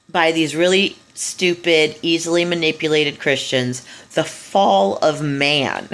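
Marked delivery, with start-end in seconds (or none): 4.1-5.9 mock solemn. Mocking Christians' title for story.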